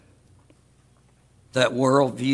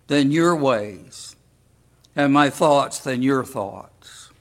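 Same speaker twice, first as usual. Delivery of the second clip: slow, measured Bible reading; scripture reading; slower than usual. Acted. Preacher reads Isaiah aloud to the congregation, slow and solemn. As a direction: read the verse with weight, slowly.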